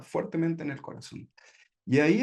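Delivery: ordinary talk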